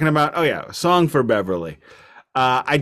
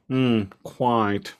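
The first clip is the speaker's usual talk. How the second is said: lightly put-on upper-class English; a touch of English upper-class reserve; upper-class English accent. Parent playing along with the child, light upper-class English accent. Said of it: "we're doing accents now".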